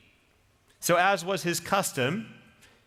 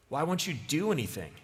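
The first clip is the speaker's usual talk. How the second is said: mild clenched teeth; 4 dB quieter than usual. Acted. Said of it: "under clenched teeth".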